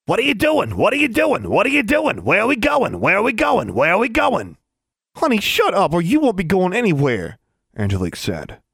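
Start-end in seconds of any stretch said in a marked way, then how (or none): 0.1-4.6 high, squawking creature voice on repeat; loud, high-pitched nagging pet; loud demanding. A narrator's reading. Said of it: "Honey demanding loudly". 5.2-7.4 high, loud telling-off; loud, fed-up threat; exasperated scolding. A narrator's reading. Owner snaps at noisy pet.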